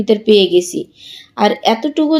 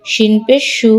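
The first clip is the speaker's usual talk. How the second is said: no stretch on সু; short vowel. Shown as a demonstration. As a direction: end on a short সু, said shu. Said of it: "কোথায় দ্রুত পড়ি".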